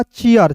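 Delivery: "चीयर" as chee-ar, in two beats; two-part vowel glide. Shown as a demonstration. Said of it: "चीर नहीं, चीयर".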